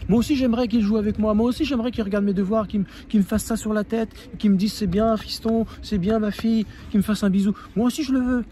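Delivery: put-on venting hurt child. Shown as a demonstration. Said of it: "tu dis tout ce que tu as sur le cœur".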